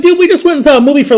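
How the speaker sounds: fast, high burst of disbelief; stunned disbelief. Retold or imitated. Friends leaving a movie to shocking news, stunned. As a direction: blurt it out in shock. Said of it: "I'm like".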